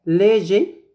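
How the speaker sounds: léger ending in an open-syllable gé, no R; silent R. Shown as a demonstration. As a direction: say léger like the letter G at the end. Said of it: "on ne prononce pas le R". (léger, sans prononcer le R final)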